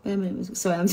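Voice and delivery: mascara face, mouth held open; mouth propped open. Real, not acted. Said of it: "I'm doing that mascara face at the moment".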